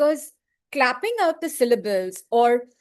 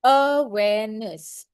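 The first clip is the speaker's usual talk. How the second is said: very slow, syllables apart; syllable demo; slower than usual. Shown as a demonstration. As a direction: break awareness into three beats. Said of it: "Three syllables".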